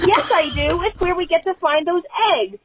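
lightly voiced indignant little kid; insistent small child. Three-year-old insisting to parent about eggs, imitated insistence.

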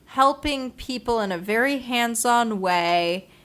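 a hint of a cooing psychic; fortune teller voice. Imitating the psychic who read her palm.

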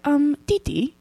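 put-on high Southern accent with a British lilt; little brother's accent. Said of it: "My little brother's accent is really cute".

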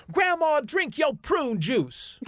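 high, drawn-out mock yell; retold movie shout. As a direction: holler it high at grandma, stretching the last words. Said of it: "And he goes".

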